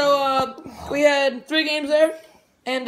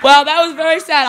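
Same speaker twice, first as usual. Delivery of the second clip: laughing; 2 semitones higher, 6 dB louder, faster than usual. Real, not acted. Teasing loser while laughing.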